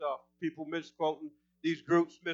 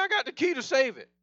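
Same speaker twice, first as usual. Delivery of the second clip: excited preaching; 4 semitones higher than usual. Real, not acted. Preacher telling the community God holds the key, excited. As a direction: voice lifted with excitement. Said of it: "when I get excited, my voice goes up".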